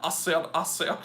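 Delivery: lightly voiced Southern rooster; a touch of mock Southern bluster; Foghorn Leghorn. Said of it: "Foghorn Leghorn ten sixteen".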